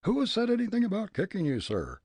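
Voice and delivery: high, fast, haughty indignation; haughty surprise. Acted. Pompous man denying it to the old gent, haughty. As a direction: sniff in offended surprise. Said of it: "demanded in haughty surprise".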